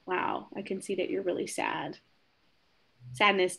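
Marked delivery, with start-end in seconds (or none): 0.1-2.0 gentle validation. Shown as a demonstration. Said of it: "that can be as simple as".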